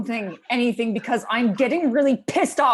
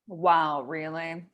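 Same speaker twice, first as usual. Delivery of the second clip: sarcastic; 4 semitones lower, much slower than usual. Acted. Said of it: "Sarcasm doesn't help anyone".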